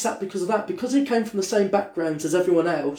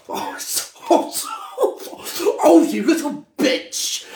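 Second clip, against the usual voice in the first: camp friend; 9 semitones higher, slower than usual. Retold or imitated. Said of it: "He went".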